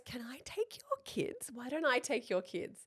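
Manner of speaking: hushed, unvoiced offer; imitated whispered question. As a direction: whisper it discreetly, as an aside to a friend. Friend offers discreetly.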